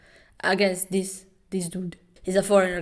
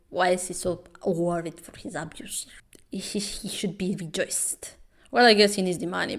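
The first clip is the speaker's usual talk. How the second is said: hushed aside; whisper. Real, not acted. Vlogger whispering to viewers in disbelief. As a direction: whisper it like a secret. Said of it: "whispered aside".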